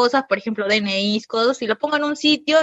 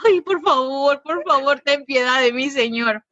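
mock pleading; 2 semitones higher, slower than usual. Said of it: "comencé a sudar así como".

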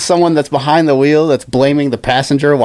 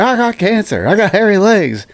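mock Biden blurt; 6 semitones higher than usual. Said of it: "it's one of those things like".

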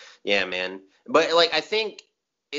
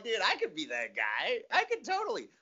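higher, eager voice; mock-excited realization; 8 semitones higher, 4 dB quieter than usual. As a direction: talk yourself into it. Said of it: "I'm like".

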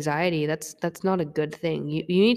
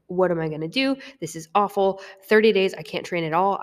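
upset; 3 semitones higher, 5 dB louder than usual. Retold or imitated. Retelling her own upset reaction to thirty days off. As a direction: replay the panic over losing training. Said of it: "I was, like, upset".

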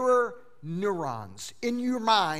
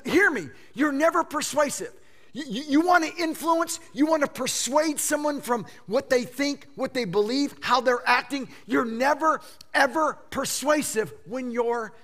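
high, urgent appeal; raised, insistent preacher's voice; impassioned pleading; 6 semitones higher, 4 dB louder than usual. Real, not acted. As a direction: plead with them to hear you.

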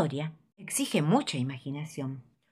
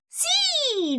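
excited yes. Acted. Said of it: "dice el chancho".

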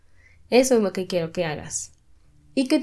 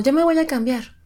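higher, lightly mocking quote; mock casual everyday phrase; 6 semitones higher, 3 dB louder than usual. Quoting what we always say, raised and mocking. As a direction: toss it off as the habit it is. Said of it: "siempre decimos".

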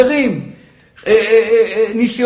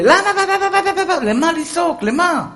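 higher, wailing imitation of a shouting woman; mock whiny wailing; 7 semitones higher than usual. Preacher mimicking a wife yelling at home. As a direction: whine the whys like a nagging shrew.

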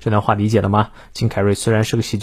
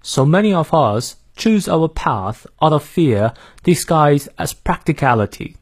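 British accent; 2 semitones higher than usual. Shown as a demonstration. Teacher repeating the sentence for learners, British accent. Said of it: "再来一遍".

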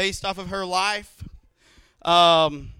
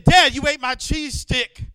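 put-on higher, louder, slower sulky child; mad little girl; 5 semitones higher, 5 dB louder than usual. Daughter scolding dad over cheese stick, mock pouty. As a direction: whine it like a cheated toddler. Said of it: "and she was so mad".

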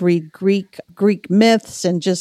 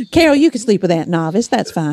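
put-on mother's Southern accent. Mom telling Carol where she'll sleep, imitated Southern accent. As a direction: imitate mom's Southern accent, matter-of-fact. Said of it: "I love when you do your mother's accent".

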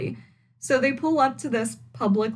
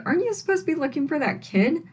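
mock judgmental; 6 semitones higher, faster than usual. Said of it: "Melissa is just being very judgmental".

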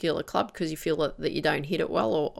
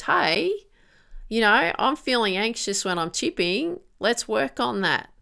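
higher, chirpy voice of the nagging problem; problem area speaking; 5 semitones higher than usual. Pretend. Coach voices the problem area calling to the golfer, higher pitched. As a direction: pipe up like the problem asking for work. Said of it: "it comes up and says".

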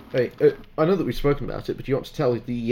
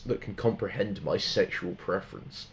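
Alucard quote; 3 semitones lower, 3 dB louder than usual. Retold or imitated. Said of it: "fucking quoting Alucard from".

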